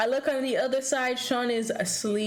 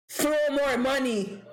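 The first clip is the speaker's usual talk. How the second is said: mock dancer voice; 2 semitones higher than usual.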